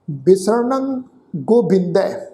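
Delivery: ਬਿਸਰਣੰ with a nasal ending, said slowly; careful pronunciation. Shown as a demonstration. Teacher modelling ਬਿਸਰਣੰ for the sangat, slow and clear. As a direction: sound out ਬਿਸਰਣੰ ਗੋਬਿੰਦੈ slowly. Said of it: "ਪਾਠ ਆ ਜੀ ਮਰਣੰ".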